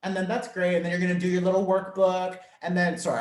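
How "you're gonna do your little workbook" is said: a touch patronising, quick and light; unintentionally condescending. Real, not acted. Workshop host talking down about the little workbook, mildly condescending. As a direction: say it briskly, as if humouring a beginner. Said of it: "that sounds so condescending".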